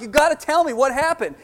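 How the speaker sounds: high, loud, eager burst of questions; retelling his own breathless curiosity; eager excited questions. Retold or imitated. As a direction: pounce on her for the news. Friend returns, he is eager.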